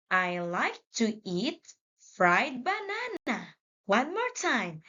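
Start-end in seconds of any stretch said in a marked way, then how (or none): 0.1-3.5 smooth, quicker reading in one flow; read faster. Shown as a demonstration. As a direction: run the words together quickly. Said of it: "Let's read faster".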